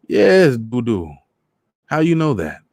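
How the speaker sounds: high, loud Trinidadian voice; surprised and pleased old man; delighted old Trini man. Acted.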